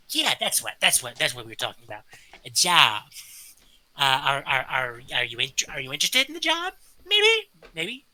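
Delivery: rambling, stammering little creature voice; scatterbrained kobold. Acted. Kobold to the new member about a job, rambling and stammering. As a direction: lose your train of thought as you go.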